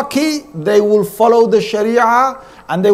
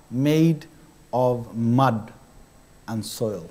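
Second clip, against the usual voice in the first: awed reflection; slower than usual. Pretend. Imagined humble reflection, slowing.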